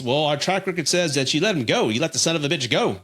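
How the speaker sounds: put-on a light, half-hearted Australian accent; joking Australian accent for the local cops. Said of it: "That's my Australian accent".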